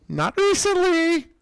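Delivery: high, slow teasing tone. Pretend. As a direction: draw it out mockingly. Teasing about the flag.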